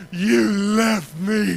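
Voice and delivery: slow, drawn-out hurt reproach; tearful accusation. Retold or imitated. Hurt little boy telling his dad he left him. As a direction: sob it out as an accusation.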